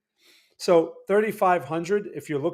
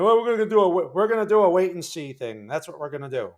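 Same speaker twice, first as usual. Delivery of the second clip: mock Powell; 3 dB louder than usual. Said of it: "He says the same thing every time".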